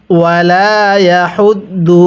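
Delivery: ইয়াহুদ্দু with air pushed out on the ha; breathy ha. Shown as a demonstration. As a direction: push breath through হা in ইয়াহুদ্দু. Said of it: "হাটা উচ্চারণের সময় মুখ দিয়ে বাতাস বের করবেন।". (ইয়াহুদ্দু হা-তে বাতাস ছেড়ে)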